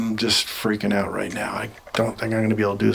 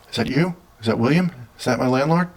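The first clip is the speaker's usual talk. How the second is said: higher, rising questions; calling out to spirit; 3 semitones higher than usual. Real, not acted. Asking the spirit whether it is the landlord, higher calls. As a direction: ask the room, half hoping for an answer.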